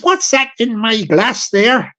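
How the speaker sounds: slow, puzzled West Country drinker; a mild southwest English accent, slightly bemused; southwestern accent. Retold or imitated. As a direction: drawl it like an old Plymouth local. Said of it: "You hear my south, southwestern accent".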